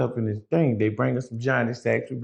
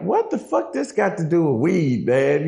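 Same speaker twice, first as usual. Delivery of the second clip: incredulous; 3 semitones higher than usual. Retold or imitated. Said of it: "So I'm like".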